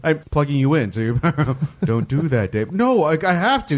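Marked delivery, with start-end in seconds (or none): 1.9-2.7 lightly voiced machine warning; monotone computer. Computer objecting to being plugged in, lightly monotone. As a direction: warn him like a talking computer. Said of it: "computer starts talking into a monotone".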